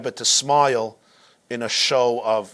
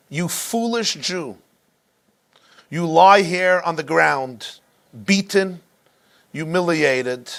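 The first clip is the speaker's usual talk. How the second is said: infuriated officer; 3 semitones higher than usual. Retold or imitated. Infuriated officer taunts beaten rabbi.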